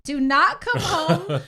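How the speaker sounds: loud, slow, high insistence; firm slow refusal. Retold or imitated. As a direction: lay down the law slowly.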